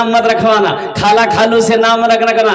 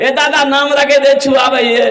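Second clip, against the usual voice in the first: women calling out; 4 semitones higher than usual. Retold or imitated. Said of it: "औरतें चिल्लाई".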